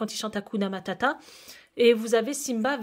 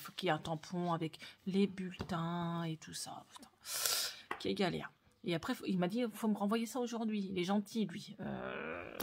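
hushed vlog talk; 3 semitones lower, 9 dB quieter than usual. Real, not acted. Speaks very softly throughout.

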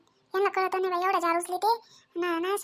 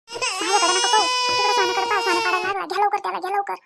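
panicked urging; 4 dB louder than usual. Acted. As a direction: shout at them to grab the child. Baby about to fall. (घाबरून ओरडून सांगणे)

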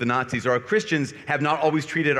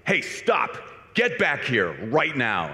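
lightly imitated booming order, slowing down; mock commanding voice, drawn out; slower than usual. A large man calling back the priest walking away, mildly booming command. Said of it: "I hear this booming voice from this large man".

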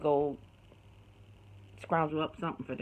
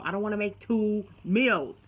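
a half-joking raised complaint; mock yell; 5 semitones higher, 5 dB louder than usual. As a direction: vent about cooking twice, half-hammed. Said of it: "I'm sorry I'm yelling at y'all".

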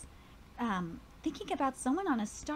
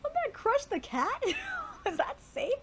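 higher, louder voice for the other character; teasing friend; 11 semitones higher, 3 dB louder than usual. Acted. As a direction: poke fun at the cat plan. Another character teases him.

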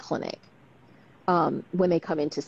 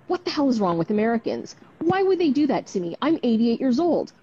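higher, indignant mock-grandma rant that builds louder to a laugh; imitating an indignant old woman, rising to louder; outraged grandma; 5 semitones higher, 5 dB louder than usual. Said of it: "And then she goes".

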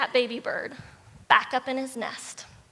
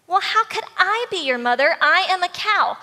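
higher, louder cow with weight on "cow"; emphatic cow; 5 semitones higher, 4 dB louder than usual. Acted. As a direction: lean on "I" and "cow" in protest. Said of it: "to emphasizing".

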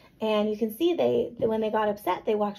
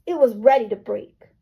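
grouchy; 5 dB louder than usual. A narrator's reading. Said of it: "Matthew said in his grouchiest voice".

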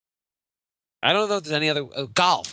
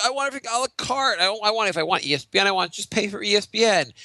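mocking entitled customer; 8 semitones higher than usual. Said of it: "everyone's like".

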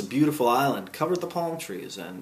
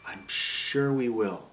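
slow, drawn-out mild gratitude; grateful; 4 dB quieter, much slower than usual. A narrator's reading. Milo replying to someone kind, mildly grateful. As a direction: say it slowly, with a touch of thanks. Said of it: "replied Milo gratefully".

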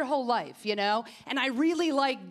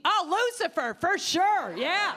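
mock athlete answer; 4 semitones higher, slower than usual.

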